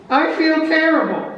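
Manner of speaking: high, loud, groaning general voice; hungover general. Acted. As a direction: moan it like a wretched hangover.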